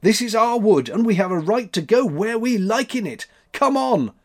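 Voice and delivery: put-on high, loud boyish defiance; bold cry. A narrator's reading. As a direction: declare it boldly and rally a companion. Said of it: "cried Max".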